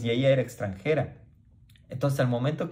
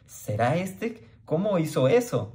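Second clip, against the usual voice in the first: amazed wondering; 5 semitones higher than usual. Retold or imitated. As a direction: mimic the stunned crowd wondering aloud. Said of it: "o sea, del cual habíamos de estar esperando". (asombro lento y agudo de la multitud)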